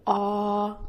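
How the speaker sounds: "ah" sustained with a very open mouth; open rounded vowel. Shown as a demonstration. Teacher showing mouth shape, open rounded ah. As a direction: open wide, lips in a loose circle for "ah". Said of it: "said with a very open mouth".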